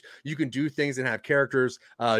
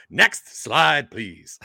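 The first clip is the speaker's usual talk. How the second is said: calling the request again, louder; louder repeat; 3 semitones lower, 4 dB louder, much slower than usual. Acted. Presenter to the slide operator, repeating louder.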